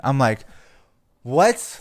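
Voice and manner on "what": high, loud disbelieving "What?"; baffled what. Retold or imitated. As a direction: shoot it up in pure confusion. Confused at the dispatcher's question.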